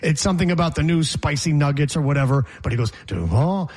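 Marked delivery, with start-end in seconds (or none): 3.1-3.7 Duval dipping low, then lifting on the end; Brian Cox's Duval cadence. Retold or imitated. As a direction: imitate the swooping cadence on Duval. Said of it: "the same exact cadence as Liam Cohen's Duval".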